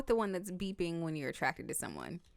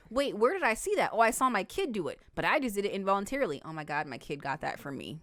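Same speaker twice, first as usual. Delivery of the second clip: acted-out dawning realization, pitched up then settling; startled realization; 3 semitones higher, 3 dB louder than usual. Parent realizing the kid copied them, mock startled realization. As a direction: play a parent suddenly catching on. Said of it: "and you're like".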